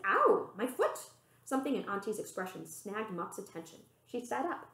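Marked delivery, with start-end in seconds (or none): 0.0-1.1 repeated cry. Acted. Mup repeats her cry.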